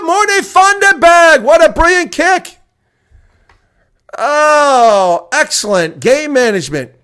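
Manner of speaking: building to a roaring, high commentary call; excited play-by-play. Real, not acted. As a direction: call the kick like the crowd's on its feet. Live call of a big kick.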